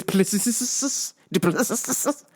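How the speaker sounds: Duplessis with a long hissed ss ending; hissed name. Acted. Mangling the fighter's name, hissing the ending. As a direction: stretch Duplessis into a hiss.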